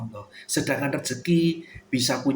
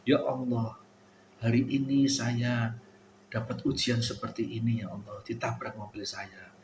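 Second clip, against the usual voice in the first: humble prayer; 3 semitones lower, 5 dB quieter than usual. Retold or imitated.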